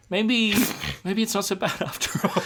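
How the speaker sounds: high, breaking into giggles; laughing change of heart. Real, not acted. Co-host giving in to a silly theory, laughing. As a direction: giggle while coming round to the idea.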